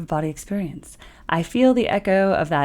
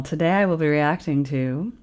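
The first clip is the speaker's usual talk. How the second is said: smooth broadcast announcer read. Shown as a demonstration. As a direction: intro it like a radio host. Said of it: "do you like that announcer voice".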